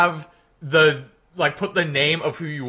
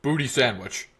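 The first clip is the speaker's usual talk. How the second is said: slightly lowered presidential impression; Obama. Streamer warming up for chat, tentative presidential impression. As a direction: attempt a measured president's address, lightly voiced. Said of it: "warm up the Obama impression".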